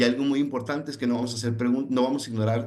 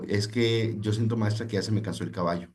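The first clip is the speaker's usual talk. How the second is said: weary student. Retold or imitated. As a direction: lightly voice a tired teenager giving up. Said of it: "un estudiante le dijo". (estudiante cansado que habla despacio a la maestra)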